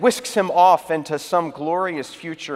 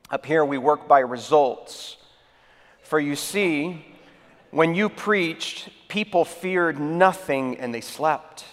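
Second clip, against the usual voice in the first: measured explanation; slower than usual. Acted. Saint Peter delivers the punchline.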